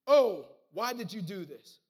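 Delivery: slow, loud anguished question; mild shout. Acted. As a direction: call out in dismay. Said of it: "they shouted".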